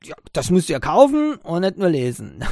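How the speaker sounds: mock scolding from a shopkeeper, played for a laugh; mahnender Ladenbesitzer. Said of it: "der Besitzer". (leicht gespielter, lauter mahnender Ladenbesitzer)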